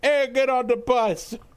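put-on drawn-out Boston accent. Retelling a movie scene, the science teacher calling everyone onto the bus: boston accent. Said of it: "this Boston-sounded guy".

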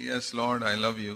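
feeble, faint, soft and very weak voice. Retelling a man's answer to the lord, acting out a very weak answer. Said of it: "Very weakly".

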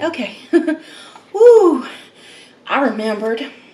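loud, high, winded, breathless, gulping air. Back from walking to the kitchen for ranch, the speaker is out of breath. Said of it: "You hear me out of breath here".

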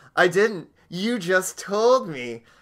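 mock self-satisfied know-it-all tone. Retelling a man's reply in a film scene, acting smug. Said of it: "he all smugly just goes".

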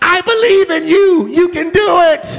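high, light scream, not forced. Recalling screaming back to their son in the other room; retelling a scream. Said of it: "So I scream back to him".

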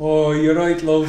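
shaky attempt at Birmingham accent that doesn't quite land. Asked on a podcast for a Birmingham accent right now, doing a Birmingham accent. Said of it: "give me a Birmingham accent right now".

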